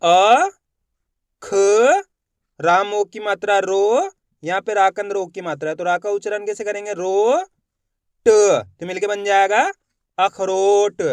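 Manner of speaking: "अ, ख, रो, ट" each said apart with long pauses before blending; teacher spelling aloud for beginners; sounding out letters. Shown as a demonstration. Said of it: "अपन एक ही अक्षर का उच्चारण करेंगे। देखो किस तरीके से". (एक-एक अक्षर का उच्चारण करके पढ़ना)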